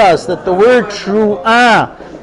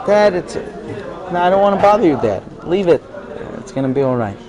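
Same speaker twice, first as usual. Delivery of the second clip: mock tearful daughter; 5 dB quieter than usual. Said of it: "She sits there crying".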